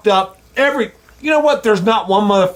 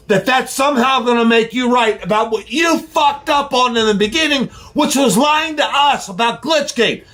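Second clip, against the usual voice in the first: fired up; 2 semitones higher than usual. Real, not acted. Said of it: "I'm getting a little fired up".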